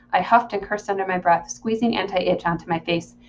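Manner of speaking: measured audiobook reading; story narration. Acted. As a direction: read the story aloud in the narrator's voice. Reads the novel aloud.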